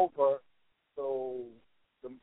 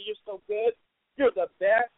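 high, sugary false praise, much higher; lightly hammed-up flattery; mock flattery; 8 semitones higher than usual. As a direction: gush like a yes-man. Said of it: "reaffirm and say".

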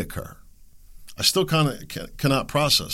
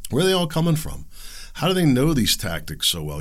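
usual speaking voice

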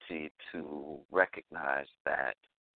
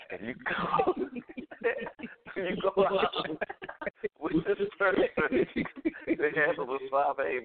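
laughing through words; 12 semitones higher than usual. Real, not acted. Telling his story, breaking into laughter.

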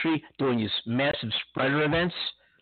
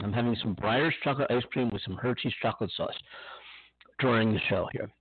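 chewing while talking; 3 semitones lower than usual. Real, not acted. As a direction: mouth full of ice cream. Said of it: "excuse me if you hear me chomping away".

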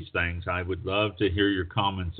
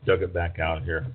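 ordinary delivery

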